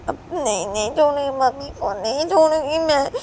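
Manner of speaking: put-on girl stubbornly holding on; stubborn refusal. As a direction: dig in and refuse. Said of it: "लिया बोलती है कि".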